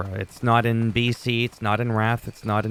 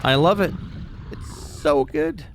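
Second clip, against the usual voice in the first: excited delight; 6 semitones higher than usual. Real, not acted.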